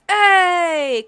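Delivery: loud, high shout of "Hey"; crowd cheer. Acted. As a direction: call out like a rowdy crowd nearby. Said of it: "you hear a round of".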